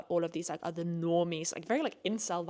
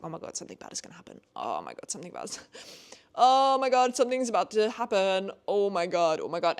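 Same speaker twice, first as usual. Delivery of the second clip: fast breathless whisper building to loud mock alarm; imitating her own tense panic while reading; retold panic; 5 dB louder, faster than usual. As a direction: start whispering in dread, then burst out louder. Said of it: "I was like".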